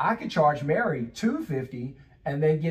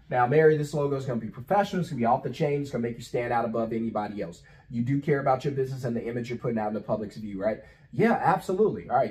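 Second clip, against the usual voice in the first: quick, persuasive closer's patter; pitching a client on a professional logo, fast and persuasive; sales pitch; 2 semitones lower than usual. Shown as a demonstration. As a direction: rattle it off to win the client over. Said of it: "That's just the way I talk".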